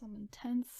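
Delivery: breathy unvoiced whisper. Real, not acted. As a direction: whisper in awe. Awed reaction.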